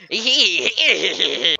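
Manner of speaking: drawn-out "hee-hee" witchy cackle; put-on creaky giggle; high cackle. Fortune teller greeting a customer, high cackle.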